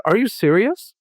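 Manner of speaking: can't believe the kindness; woman at the grocery store, incredulous; retold incredulity. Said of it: "And she said".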